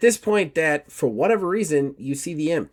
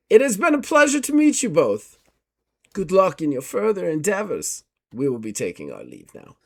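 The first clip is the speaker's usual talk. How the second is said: a prim, courteous investigator, raised pitch; formal gentleman; 4 semitones higher than usual. Acted. GM as Gustav taking his leave of Miss Carlton, formal and polite.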